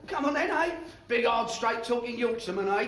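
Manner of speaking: high, heated challenge; goading taunt. Acted. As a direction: dare them to take a swing. Goading rival to a fight.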